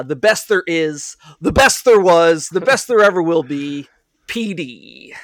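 building hyped announcer intro; a hint of a ring announcer; wrestling promo. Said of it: "do a wrestler voice".

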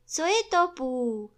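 high, loud clamour; excited calling out. A narrator's reading. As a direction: call out eagerly from the crowd. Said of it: "neboť všichni volali".

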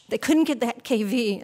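ordinary delivery

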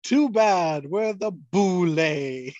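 sneering panto villain, lightly voiced; Dracula voice. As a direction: gloat like a campy vampire. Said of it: "This is your Dracula voice".

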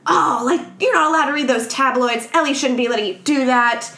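high-pitched indignant scolding, lightly acted; mock mad. Imitating mother scolding daughter over tabloids, mock indignant. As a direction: act out a cross mother telling off a kid. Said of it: "she gets mad".

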